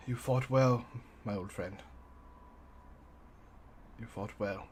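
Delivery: soft, quiet, grieving goodbye; tender farewell. Acted. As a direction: ease an old friend into death. Farewell to dying dragon friend.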